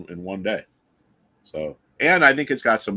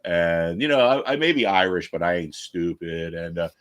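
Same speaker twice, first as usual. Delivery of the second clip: lightly voiced Biden, rambling and slowed; a hint of Biden telling a tall tale; Biden impression. Mocking Biden rambling to a camera, lightly voiced. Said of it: "you can tell Biden lies".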